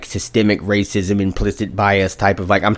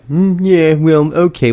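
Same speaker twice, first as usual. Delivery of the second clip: higher, put-on smug racist voice; mock racist; 7 semitones higher than usual. Podcaster imitating the racist passenger, higher and mocking. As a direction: play the shrugging bigot, pitched up. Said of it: "Like a typical, like, piece of shit racist".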